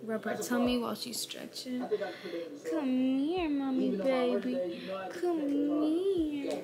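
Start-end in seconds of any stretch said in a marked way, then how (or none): 2.7-6.5 tender cooing. Real, not acted. Owner rubs stretching dog's tummy, tender cooing. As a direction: coax gently, stretching the words.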